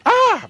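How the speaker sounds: sudden high, loud "ah"; exclaimed "ah". Real, not acted. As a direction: burst out with a high-pitched cry of "ah". Host exclaims before addressing guest.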